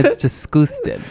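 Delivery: slow Irish pronunciation with a laugh; mock Irish accent. Teasing co-host's impression of an Irish lady, mock Irish accent. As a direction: mimic the Irish accent, amused. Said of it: "in Ireland they say disgusting".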